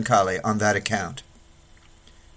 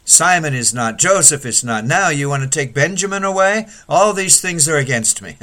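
higher, louder anguished lament; lamenting complaint; 4 semitones higher, 4 dB louder than usual. Acted. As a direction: pour out the grievance like old Jacob. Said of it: "You've thought".

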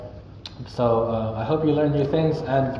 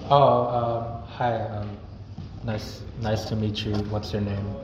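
hesitant hello, softer and dropping; halting, shy introduction full of ums; mild awkward mumble; awkward, disinterested greeting; 3 semitones lower, 3 dB quieter, slower than usual. Shown as a demonstration. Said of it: "If I'm talking like that, the person's not interested".

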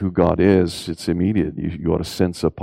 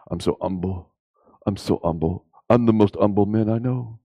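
lightly put-on British accent, simpering; a hint of a British fawning humility in the accent. Preacher mimics Uriah Heep in a mild British accent. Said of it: "the British".

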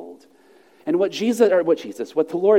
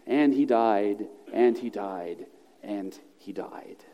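each "and he died" lower, slower and softer until it almost vanishes; a dying refrain, sinking to a hush; solemn refrain; 9 semitones lower, 6 dB quieter, slower than usual. Acted. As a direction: toll it like a bell fading out. Repeated death refrain.

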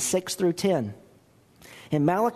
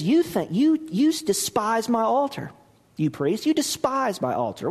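high, forceful accusation; stern rebuke; 5 semitones higher than usual. Retold or imitated. Pastor voices God rebuking priests, forceful high accusation. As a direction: let God's anger rise on each you.

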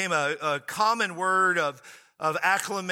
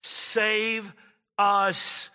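slow, spaced-out plea; crying out; much slower than usual. Acted. Crowd calling to Jesus for help, measured crying out. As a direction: cry it out word by word, with long pauses. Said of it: "they're literally crying out".

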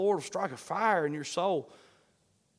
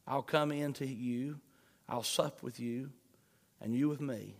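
tender promise; 4 semitones lower, 4 dB quieter than usual. Acted.

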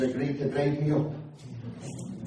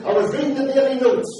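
excited retelling; 6 semitones higher, 3 dB louder than usual. Retold or imitated. Retelling Scott's joyful call.

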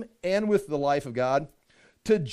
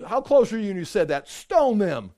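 normal talking voice

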